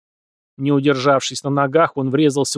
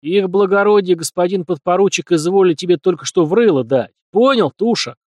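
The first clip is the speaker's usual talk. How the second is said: higher, louder, scoffing jeer; snorting mockery; 5 semitones higher, 5 dB louder than usual. A narrator's reading. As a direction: snort it at the fat merchant. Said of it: "Фыркнул казак".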